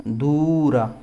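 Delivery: दूर with a long ū and the final ra fully sounded; full final vowel. Shown as a demonstration. Teacher showing the mantra form, दूर said as doo-ra. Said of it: "लेकिन ये है दूरा".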